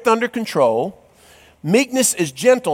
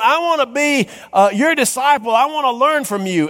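pleading disciple voice, higher; eager young man, higher; 6 semitones higher than usual. Acted. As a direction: ask it again, eager and higher. Young disciple asks again.

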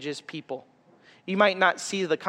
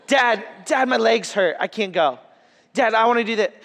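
higher, mock little girl whine; whining toddler; 4 semitones higher, 3 dB louder than usual. Dad imitating his lollygagging daughter at the park. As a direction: play the kid with legs that won't move.

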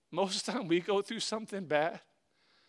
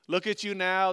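mock yell; 2 semitones higher, 6 dB louder than usual. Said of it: "they yelled at him".

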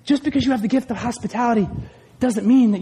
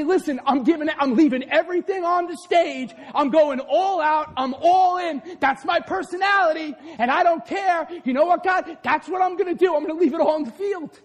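fired-up vow; 4 semitones higher than usual. Retold or imitated. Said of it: "I come in this pulpit and I say".

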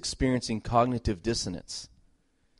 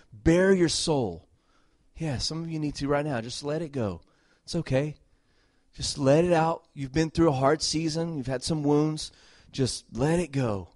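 gentle ministry call; 4 semitones higher than usual. Acted. Ministering to those crying.

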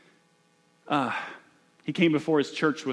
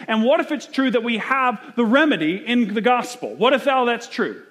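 high, loud, driving preacher's build; preaching at full force; 8 semitones higher, 4 dB louder than usual. Acted. Pastor pressing the congregation, preaching at full force. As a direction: lift the room with each what if.

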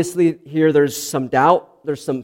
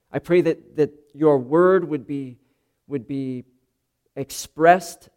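prayer. Acted. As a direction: pray it aloud to the congregation, unhurried. Opening prayer before the sermon.

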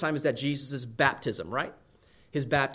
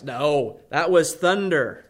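insistent mock naturalist; 5 dB louder, much slower than usual. Naturalist insists in acted quarrel.

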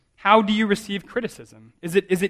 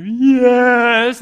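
put-on child's yes; 7 semitones higher, 9 dB louder than usual. Son answers dad after crying.

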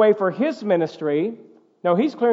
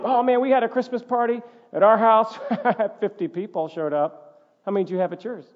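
mock boastful host. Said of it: "start to think it's all about".

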